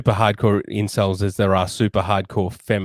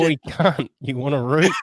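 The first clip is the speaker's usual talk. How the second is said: mock Australian; 4 semitones higher than usual. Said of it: "women do love accents".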